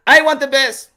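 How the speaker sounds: firm demand in an imitated accent; Manny Pacquiao insisting. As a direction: insist like a proud foreign-accented fighter. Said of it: "Manny Pacquiao was, went to the office".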